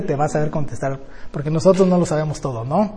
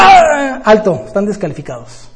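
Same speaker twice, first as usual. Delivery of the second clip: calling a false start; 4 dB louder than usual. Retold or imitated. Grandpa stops early starters.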